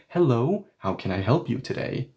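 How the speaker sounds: a touch of polite phone-agent formality; customer service greeting. Pretend. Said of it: "imbues that customer service nuance".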